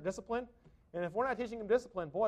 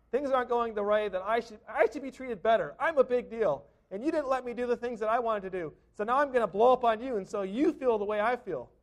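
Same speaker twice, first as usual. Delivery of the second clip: mock angry rant; 4 semitones higher, 5 dB louder than usual. Voicing angry person.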